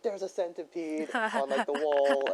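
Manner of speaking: high, loud mock scream; imitated panicked screaming. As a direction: cry out like kids screaming over a bug, half laughing. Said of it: "they just started screaming and stuff".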